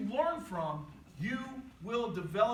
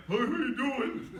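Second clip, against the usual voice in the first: slow, louder put-on pickup line; weird flirty talk; 2 semitones higher, 4 dB louder than usual. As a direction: play a drawn-out, exaggerated flirt. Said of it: "I just started talking weird".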